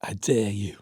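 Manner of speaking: put-on low Scouse-accented dare; Liverpool accent. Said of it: "In that Liverpool accent".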